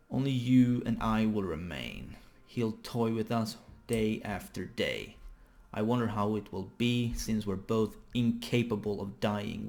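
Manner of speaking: slow, weighty doom-laden dialogue; dramatic manga reading. Acted. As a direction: read it out slowly, stretching the line endings.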